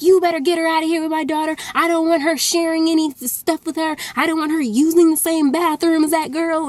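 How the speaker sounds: lightly imitated country-accented father. Father ordering the girl out, retold in a country accent. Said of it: "he had this country accent".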